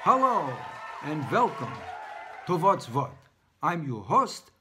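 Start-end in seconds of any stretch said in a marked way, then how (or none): none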